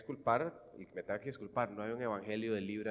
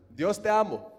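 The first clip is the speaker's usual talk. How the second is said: mock elated cry; 7 semitones higher, 9 dB louder, slower than usual. Mock worshipper leaving church elated.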